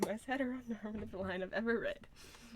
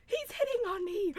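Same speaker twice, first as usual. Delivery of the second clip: high-pitched thrilled cry; giddy squeal; 10 semitones higher than usual. Real, not acted. Streamer flirted with by a game character, giddy high squeal. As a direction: squeal it high, about to laugh.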